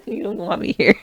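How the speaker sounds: softly sulking through little laughs; mock-serious sulk. Wife tells partner she's done with the podcast, mock sulking. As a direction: play done with it, half serious. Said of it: "it does not sound like you're joking".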